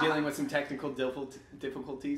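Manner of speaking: getting throat swabbed. Real, not acted. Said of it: "sounds like you're gagging every time you say it".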